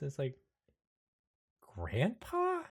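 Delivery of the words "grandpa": higher, softer questioning; gentle wondering question; tentative recognition. Acted. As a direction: ask it timidly, pitch lifted. Mouse meets his grandfather.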